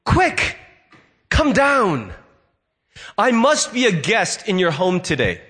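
a gentle call down from the tree. Retold or imitated. Jesus inviting himself to Zacchaeus' home, gentle and kind. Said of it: "not in a harsh tone".

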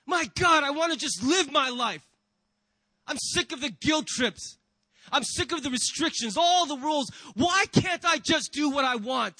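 exasperated, rising to a shout on the rules; frustrated outburst. Acted. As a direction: vent like someone sick of restrictions. Acted frustrated believer's complaint.

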